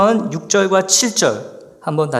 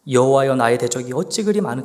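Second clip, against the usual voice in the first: poetic recitation; 5 semitones lower than usual. Shown as a demonstration. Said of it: "운치까지 있어 보여요".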